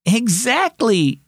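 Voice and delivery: high, drawn-out delighted agreement; amused, high-pitched exclamation; delighted laughing. A narrator's reading. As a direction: agree with gleeful surprise, stretching the word. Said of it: "Sylvie laughed".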